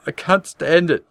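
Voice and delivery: high, loud tearful wail; sobbing. A narrator's reading. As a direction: wail it out near tears. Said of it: "She was sobbing".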